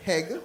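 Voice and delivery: heg said with an added H before egg; Jamaican H added. Shown as a demonstration. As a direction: say heg, putting an H in front of egg. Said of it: "we add H to every word".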